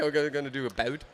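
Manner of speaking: quick put-on American accent; mock American accent. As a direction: rattle it off in a fake American accent. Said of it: "I was like".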